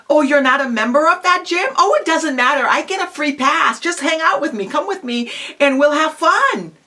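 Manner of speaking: demonstrating a casual invite; casual persuading. Shown as a demonstration. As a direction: wave off the worry and casually coax a friend along. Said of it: "Well, very casually say".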